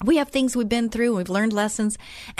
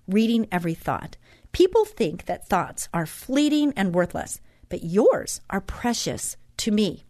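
devotional reading. Acted. Host reads God's words to listeners, measured devotional reading. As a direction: read it aloud phrase by phrase, deliberately.

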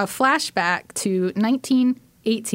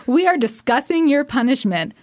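mom impression; 4 semitones higher, 3 dB louder than usual. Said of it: "try to do an impression of my mom".

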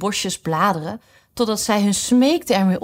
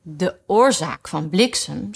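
very decided; slower than usual. Acted. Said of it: "zei Alice zeer beslist".

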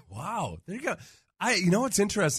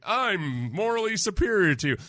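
smug host voice; 7 semitones higher than usual. Retold or imitated. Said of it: "plays a character".

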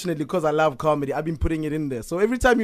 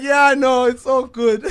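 breezy reassurance; 7 semitones higher, 7 dB louder, slower than usual. Retold or imitated. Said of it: "I'm like".

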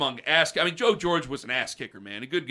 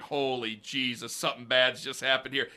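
smirking trainer; 4 semitones lower, 5 dB quieter than usual. Retold or imitated. Trainer smirking at benched players, mock-grave murmur. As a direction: hush it like you've seen disaster. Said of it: "He's like".

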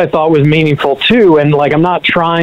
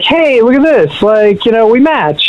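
higher-pitched, eager show-and-tell; retold excitement, pitched up to get attention; excited retelling; 6 semitones higher than usual. Showing his friend the new tattoo, excited. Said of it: "excited to show her".

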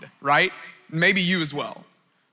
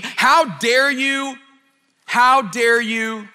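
mock indignant rebuke; 5 semitones higher, 3 dB louder, much slower than usual. Imagined condemning Jesus speaks.

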